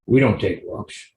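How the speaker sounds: the dog's catchphrase, lightly voiced and unhurried; Luigi impression. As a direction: give the dog a knowing, lightly voiced line. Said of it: "that's the best Luigi impression I can do".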